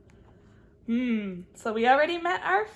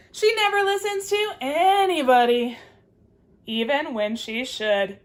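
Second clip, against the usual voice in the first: exasperated squirrel; 5 dB louder than usual. Acted. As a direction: huff it out in exasperation. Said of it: "says the squirrel".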